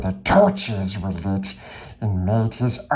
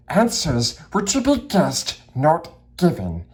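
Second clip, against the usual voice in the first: higher, annoyed hobbit voice; Bilbo retorting; 5 semitones higher than usual. Acted. Bilbo reminds Gollum of the game's rules, annoyed. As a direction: insist on the rules. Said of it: "he said".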